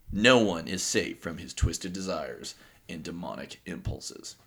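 slow, ominous trailer read; lightly hammed-up movie trailer doom; horror trailer voice. Reads Kane's villain bio aloud.

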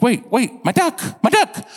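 high-pitched pleading after something slipping away; mock panicked plea. Hunter watching his duck float off, mock panic.

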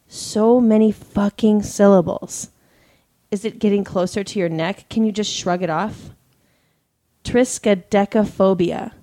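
measured reading with pauses between phrases; suspense story narration. A narrator's reading. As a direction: read a creepy tale aloud, letting each line hang. Reads a submitted story aloud.

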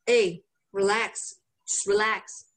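gently imitating calming a worried friend; mock reassuring. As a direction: soothe the panicked friend. Calming friend while crippled.

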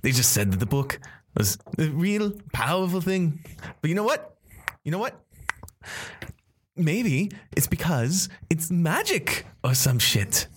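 high, slow mocking drawl; sneering villain. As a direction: brush them off with contempt. GM voices Red Rider dismissive.

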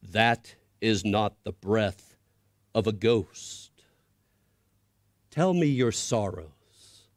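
slow, low, reassuring grand voice; large, deep voice. Acted. Creature tells the boy it is no ghost, slow and low. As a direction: speak slowly, reassure him. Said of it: "it said".

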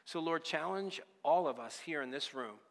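steady, earnest prayer voice; closing prayer. Acted. The pastor prays over the church, earnest and steady. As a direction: pray over the congregation.

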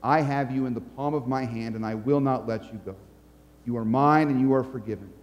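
low, tender assurance; calm, lightly voiced comfort; reassuring Jesus. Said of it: "Jesus looks at you and says".

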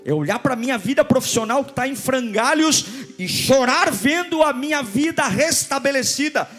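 impassioned, high-pitched pulpit delivery; fervent preaching. Real, not acted. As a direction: preach it with mounting fervour. Preaches with rising fervour.

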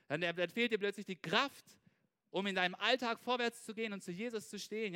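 ordinary delivery

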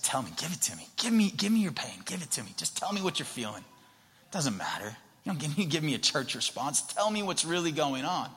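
pleading, partly whispered urging; urgent coaxing. Acted. Jesus asking for their pain, urgent and coaxing.

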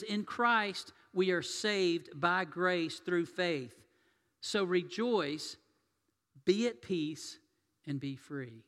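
slow, deliberate blessing, each phrase weighed; preacher quoting a blessing, slow and measured; slow proclamation. Shown as a demonstration. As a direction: proclaim it slowly from the pulpit. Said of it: "I'm gonna say that again".

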